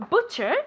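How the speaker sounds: "butcher" with a short oo, "BOO-cher"; modelled butcher. Shown as a demonstration. Teacher correcting the student's word, "butcher" with a short oo. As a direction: say "butcher" alone, its first vowel as in "book". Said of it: "Butcher is like a B".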